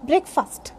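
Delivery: breakfast as BREK-fust, short vowels; correct pronunciation. Shown as a demonstration. Teacher repeating breakfast for learners, BREK-fust. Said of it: "This is breakfast".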